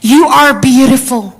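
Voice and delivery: slow, gentle telling; mother soothing her daughter; tender reassurance. Retold or imitated. Mother gently tells Zoe she is beautiful, tender. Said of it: "saya bilang sama Zoe".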